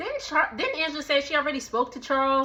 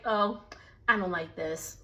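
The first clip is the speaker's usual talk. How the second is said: softer, lower mocking whine; 4 semitones lower, 6 dB quieter than usual. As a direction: imitate her complaining quietly. Mocking Shamia's complaint.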